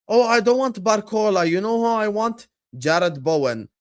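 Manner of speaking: mocking imitation of a picky supporter; mock fan voice. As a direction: parody a fan who rejects Barcola. Mocking a fan's wishlist again.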